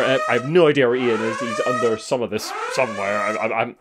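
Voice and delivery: high, fast, hammed-up flustered alarm; mock panic. Host to co-host, hammed-up panic over too much news. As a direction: play the frantic boss whose office is drowning.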